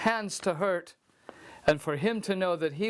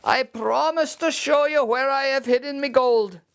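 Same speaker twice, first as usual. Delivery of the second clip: high, cagey little voice; sly leprechaun; 8 semitones higher than usual. Acted. Leprechaun denies his gold to Seamus in a high sly voice. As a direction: play innocent, high and quick.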